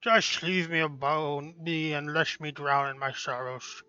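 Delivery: slow gloomy mutter; drunk sad patron. Acted.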